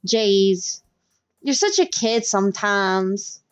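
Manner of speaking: Southern-twanged mild scolding; Southern accent. Acted. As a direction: chide with a light Southern drawl. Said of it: "We're gonna make her real Southern".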